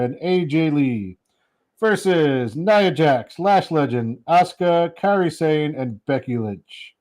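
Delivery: slow, drawn-out roll call of names; announcer's match card. Real, not acted. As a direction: announce the line-up, stretching each name.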